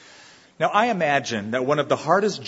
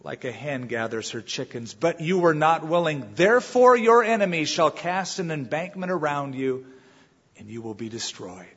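lament; 2 semitones higher than usual. Retold or imitated. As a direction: grieve over the city, fading at the end. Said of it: "And he said".

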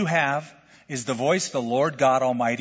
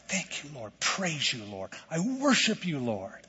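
much softer murmured thanks; quiet prayer; 7 dB quieter than usual. Shown as a demonstration. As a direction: breathe a private prayer of thanks. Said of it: "look at and go".

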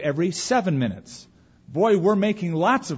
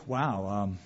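overwhelmed believer. Pretend. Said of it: "you might say".

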